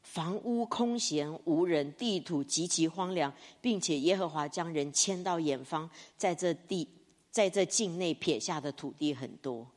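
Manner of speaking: lightly voiced solemn divine answer; solemn God. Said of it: "神就跟他讲说".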